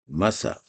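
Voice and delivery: "Massa" read slowly in two syllables, ending on a rising a; sounding out massa. Shown as a demonstration. Teacher reading Arabic letters to students, sounding it out. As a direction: spell out "Massa" as ma-ssa. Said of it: "supposons on met massa".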